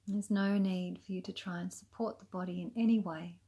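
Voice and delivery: calm, unhurried yoga nidra guidance with long pauses; soothing, even meditation voice; guided meditation. Acted. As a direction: gently lead them into rest, leaving space between phrases. Guides a relaxation practice.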